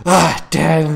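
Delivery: mock a fed-up child's protest; imitating annoyed daughter. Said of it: "she gets so mad".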